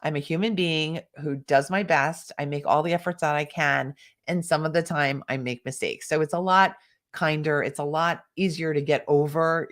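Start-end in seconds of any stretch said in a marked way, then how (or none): 0.0-6.1 calm, non-critical self-talk; neutral tone. Shown as a demonstration. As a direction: say it evenly, kindly to yourself. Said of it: "you could just neutralize the tone and say".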